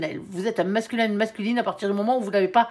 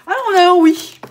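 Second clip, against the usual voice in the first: much louder and higher as the answer appears; excited reveal; 8 semitones higher, 11 dB louder than usual. Real, not acted. Reader reveals the angel's answer, loud excited. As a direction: announce the yes with delight.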